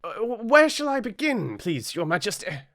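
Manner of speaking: high, small rabbit voice; timid rabbit. A narrator's reading. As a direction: squeak it out nervously. White Rabbit asks.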